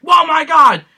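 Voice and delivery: stunned cheer in a packed cinema; retold amazement. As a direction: blurt it out like the whole theater. Retold audience reaction.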